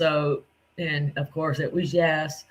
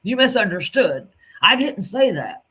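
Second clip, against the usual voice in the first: loud, high mocking imitation of Ryan yelling; 4 semitones higher, 5 dB louder than usual. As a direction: mimic his angry denial, loud and high. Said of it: "you were like".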